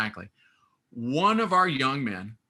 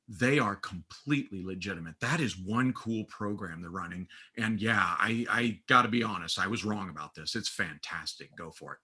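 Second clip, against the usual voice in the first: sincere admission; 6 semitones lower, 6 dB quieter than usual. Retold or imitated. Retold aunt soberly admitting she was wrong.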